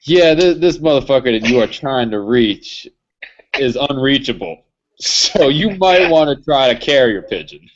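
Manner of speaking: lightly voiced phone recording; a hint of a robotic operator; automated message voice. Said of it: "automated, uh, voice message that says".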